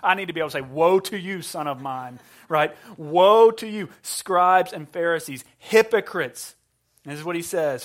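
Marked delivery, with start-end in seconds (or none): 0.6-2.2 a hint of a stern father, Woe to you; mock stern father. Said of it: "for dramatic effect". 3.0-6.6 loud, slow denunciation, hypocrites; thundering woe. Acted. Preaching Jesus's denunciation loudly.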